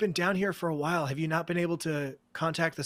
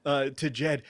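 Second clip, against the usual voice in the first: ordinary talk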